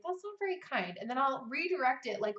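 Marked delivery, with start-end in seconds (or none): 0.0-1.0 higher, soft and kind; gentle. Shown as a demonstration. Writer gently correcting her inner critic. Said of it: "So I will say to my inner critic".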